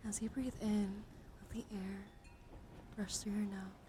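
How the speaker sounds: hushed, unhurried relaxation voice; guided breathing meditation. Acted. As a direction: guide them gently through each breath. Leads a breathing exercise.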